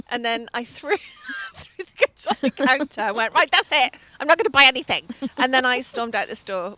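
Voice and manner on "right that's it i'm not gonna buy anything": louder storming-off declaration; hissy fit shout. Retold or imitated. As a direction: announce it like you're walking out on her. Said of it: "I had a hissy fit, shouted at the girl".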